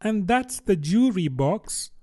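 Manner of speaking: put-on a girl savouring what she knows; lightly voiced young Alice; Alice to herself.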